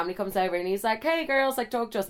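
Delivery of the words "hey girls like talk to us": lightly put-on Amsterdam accent, higher pitch; Amsterdam man. Amsterdam guy comes over to the girls, imitated higher-pitched accent. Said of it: "he was from, um, Amsterdam".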